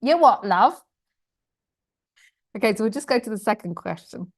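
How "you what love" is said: loud, high, mock-bewildered query; baffled brain. Teacher voicing own brain's reaction to the question, baffled. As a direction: blurt it out in comic disbelief. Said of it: "my brain was like".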